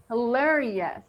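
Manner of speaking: "hilarious" with the last syllable rushed through as a schwa; quick schwa ending. Shown as a demonstration. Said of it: "So we say".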